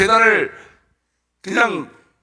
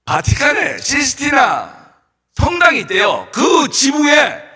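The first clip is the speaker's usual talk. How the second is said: 힘찬 설교; 7 semitones higher, 6 dB louder, slower than usual. Real, not acted. 강단에서 힘주어 이야기 시작.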